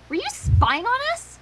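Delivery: accusing. Acted. Twilight catches them spying.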